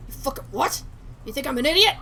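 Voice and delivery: angry threat. Acted. Gangster threatening the victim.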